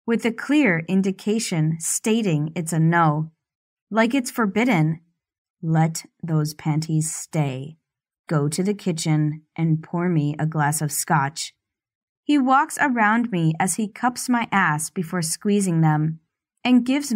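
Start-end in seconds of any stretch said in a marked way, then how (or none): 5.6-11.5 lightly lowered, controlling man's voice; domineering man. Acted. Stefan commands her.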